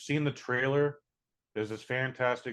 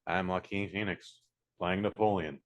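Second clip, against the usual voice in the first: lower, mildly put-on actor voice; a touch lower, lightly mimicked; mock Joaquin Phoenix; 4 semitones lower, 3 dB quieter than usual. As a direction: lightly imitate an actor talking as himself. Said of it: "is just talking like".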